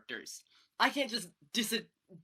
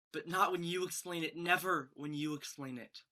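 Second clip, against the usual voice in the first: tender admission; 3 semitones lower, 4 dB quieter than usual. Acted. Tender correction to Zoe.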